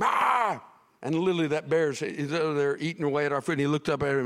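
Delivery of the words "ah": high mock scream; short hammed-up yell; retold scream. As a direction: yelp like a scared four-year-old. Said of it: "and I screamed".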